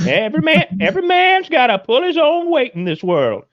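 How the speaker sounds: high, mocking official voice; mock authority voice. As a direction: put on a high stern voice. Continued mock lecture voice.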